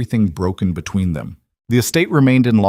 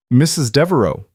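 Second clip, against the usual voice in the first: lightly voiced cultured Russian accent, higher and louder; a hint of cultured Russian in a forceful greeting; faint Russian accent; 5 semitones higher, 5 dB louder than usual. A narrator's reading. Cultured caller greets her on the phone, faint Russian accent. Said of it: "carrying a faint Russian accent".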